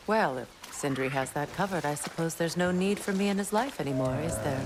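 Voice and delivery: dry, sulky sarcasm; sarcastic. Acted. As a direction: feign hurt, say it with a sneer. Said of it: "That was sarcasm".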